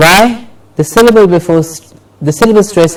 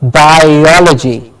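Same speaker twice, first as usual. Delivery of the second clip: "Biology" slowly, bi-OL-uh-jee; slow teacher's model of "Biology", stressing the second syllable; stress before -logy; slower than usual. Shown as a demonstration. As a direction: draw out "Biology", weight on "o". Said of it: "the syllable before logy is stressed".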